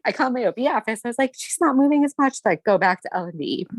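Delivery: high, teary, close to tears; after crying. Real, not acted. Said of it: "sorry, I started crying about this".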